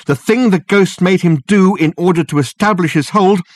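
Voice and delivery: high, loud, urgent realization; urgent revelation. A narrator's reading. Dirk revealing the ghost's purpose to Reg and Richard, urgently. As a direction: hammer home the horror as it dawns.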